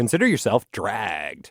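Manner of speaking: swooping commercial radio announcer voice. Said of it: "radio voice? I love it".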